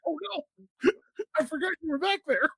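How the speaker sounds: high voice, laughing through it; laughing apology. Retold or imitated. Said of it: "And I'm like".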